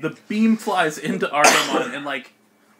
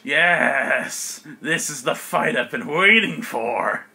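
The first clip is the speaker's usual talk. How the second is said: relishing villain; slower than usual. Acted. Monster relishing burning in battle.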